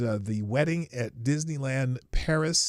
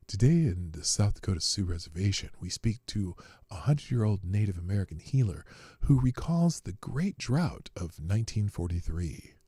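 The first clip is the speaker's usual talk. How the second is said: mock NPR voice; 5 semitones lower than usual. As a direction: read it like a gentle NPR feature story, slowing toward the end. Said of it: "was that a good NPR voice?".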